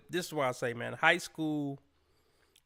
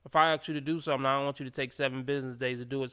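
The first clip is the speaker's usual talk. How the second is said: slick tone; much faster than usual. Retold or imitated. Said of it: "that little slick tone".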